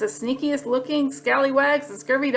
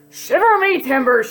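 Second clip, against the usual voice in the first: louder pirate exclamation; pirate shout; 2 semitones higher, 3 dB louder than usual. Acted. Pete shouting at the rascal. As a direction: shout it like a captain. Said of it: "shouted Pete".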